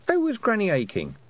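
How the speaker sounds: high, questioning other voice; curious voice. A narrator's reading. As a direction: ask it as a different person, lifted. A voice asks, pitched high.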